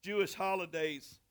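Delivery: measured Bible reading with pauses between phrases; deliberate, phrase-by-phrase pulpit reading; scripture reading. A narrator's reading. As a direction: read the story aloud to a congregation. Reads Bible story aloud.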